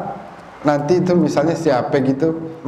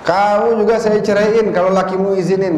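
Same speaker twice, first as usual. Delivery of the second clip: woman's voice; 5 semitones higher than usual. Retold or imitated. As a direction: play the neighbor woman teasing. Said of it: "Tahu nggak apa yang terjadi?". (suara perempuan tetangga, dibuat-buat)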